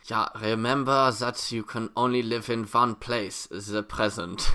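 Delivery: slow, soft mock-spiritual guide; lightly voiced life coach preaching calm; a hint of a meditation teacher; mock guru wisdom. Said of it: "I really hoped it was something like".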